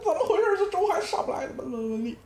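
high, impatient Dongbei complaint; Northeastern accent. Retold or imitated. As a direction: fuss about the late congee in Dongbei speech. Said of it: "后面东北话就出来了".

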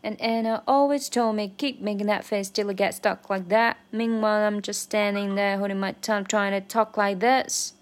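lyric line at full song speed; normal speed. Shown as a demonstration. Learner shows the fast version to viewers. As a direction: run the line at normal tempo. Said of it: "长速版".

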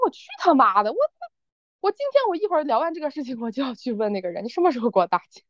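mildly fired-up rant; half-earnest indignant outburst; venting anger. Acted. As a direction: let off steam with a touch of outrage. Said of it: "我的气说完了".

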